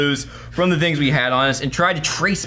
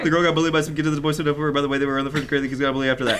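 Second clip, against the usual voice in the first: imitating a run-on read; much faster than usual. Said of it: "you didn't know where to take a breath".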